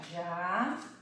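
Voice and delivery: JABOTICABA in five isolated syllables, long silences between. Shown as a demonstration. Teacher separating the word on the board, syllable by syllable. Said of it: "vou separar".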